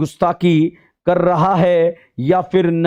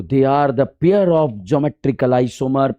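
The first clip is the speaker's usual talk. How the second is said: slow emphatic; 5 semitones lower, much slower than usual. Real, not acted. Teacher slows for key definition.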